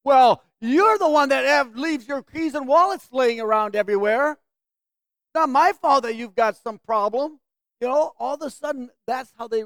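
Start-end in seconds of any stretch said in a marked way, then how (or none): 0.0-7.4 louder, defensive retort acted out; mock angry yell back. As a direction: hit back at the accuser, blaming them. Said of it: "I can yell it back in their faces".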